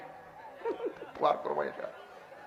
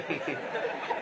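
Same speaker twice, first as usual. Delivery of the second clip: low, quiet chuckle; 4 semitones lower, 8 dB quieter than usual. Real, not acted. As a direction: chuckle softly to yourself. Laughs at his own joke.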